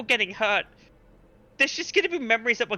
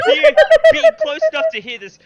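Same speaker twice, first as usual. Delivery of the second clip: excited; 11 dB louder, faster than usual. Acted. Dramatic pause narration.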